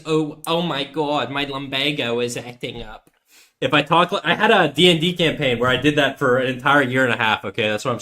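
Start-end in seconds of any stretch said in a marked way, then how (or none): 0.0-3.1 put-on slow, soft old Jersey man complaining; Jersey accent. Shown as a demonstration. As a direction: groan it like a Jersey old-timer with a bad back. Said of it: "maybe kind of Jersey accent".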